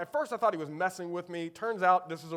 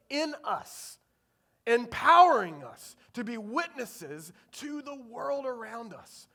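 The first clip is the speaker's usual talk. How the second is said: raised, earnest preaching voice; 6 semitones higher than usual. Real, not acted. Preacher declares the gospel to a congregation, raised earnest preaching. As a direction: preach it in measured, emphatic phrases.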